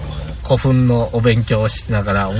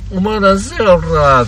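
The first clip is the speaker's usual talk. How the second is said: imitating a thug; 8 semitones higher, 4 dB louder than usual. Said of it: "とかまた言われるんやろうね".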